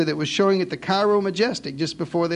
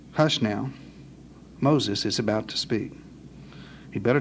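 hushed; 9 semitones lower, 6 dB quieter than usual. Acted. Preacher hushing the crowd.

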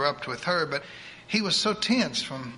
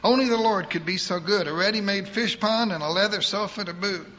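put-on higher, fast voice of a bossy old churchwoman; eager church lady; 4 semitones higher than usual. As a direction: rattle it off like a pushy saint. Edith plans soul-fishing.

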